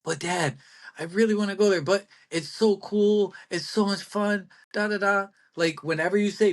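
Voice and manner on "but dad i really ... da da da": put-on annoying kid pleading with a parent; whiny little brat. Kid begging Dad to go there, whiny. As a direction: drag out the pleas like a nagging child. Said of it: "picture the most annoying version of that of yourself when you were a kid".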